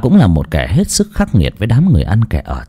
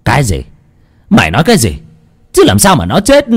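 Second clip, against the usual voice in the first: hurried alarm; 3 semitones higher, faster than usual. Acted. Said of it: "vội vàng nói".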